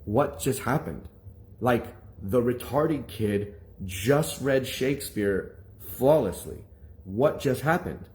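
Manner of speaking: slow, stunned imitated disbelief; a little spooked. Classmates staring after the poor reader's flawless reading, stunned. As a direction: spell it out slowly, dumbfounded. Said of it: "freaked out, like, a little spooked".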